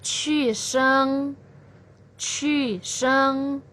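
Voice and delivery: qi sheng dipping down then up; qi sheng with a falling-rising dip; third tone name. Shown as a demonstration. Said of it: "nada ketiga ini disebut juga dengan".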